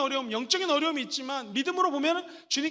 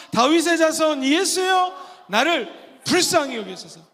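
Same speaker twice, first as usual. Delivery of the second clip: loud, slow, pleading cry to Jesus; loud, slow pleading shout; crying out in prayer; 3 semitones higher, 7 dB louder, slower than usual. Shown as a demonstration. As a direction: call out Son of David, begging. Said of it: "시작".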